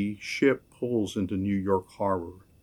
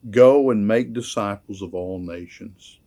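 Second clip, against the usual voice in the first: commanding quote; 5 dB louder than usual. Shown as a demonstration. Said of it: "the active verb in this".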